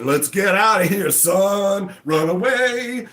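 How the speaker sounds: hammed-up cry to flee, slowing at the end; fleeing shareholders. Shareholders urging each other to flee, mock panic.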